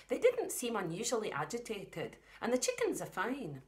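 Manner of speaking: a hint of a Scottish farm mum. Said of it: "the mum has got the Scottish voice".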